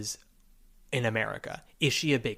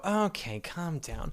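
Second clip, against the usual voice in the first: mock exasperated; 4 semitones higher, 5 dB quieter, slower than usual. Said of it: "you just go".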